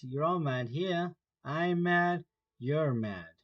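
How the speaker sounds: lightly voiced sly grinning cat, amused; a hint of a grinning cat, unhurried; Cheshire cat voice. Cat declares everyone mad.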